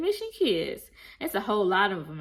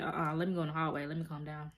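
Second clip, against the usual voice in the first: near tears; 5 semitones lower, 9 dB quieter, faster than usual. Retold or imitated. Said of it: "I think she was about to cry a little bit".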